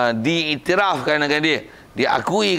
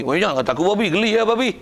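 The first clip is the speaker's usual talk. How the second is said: mock anger; 3 semitones higher, faster than usual. Shown as a demonstration. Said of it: "marah macam kata kau".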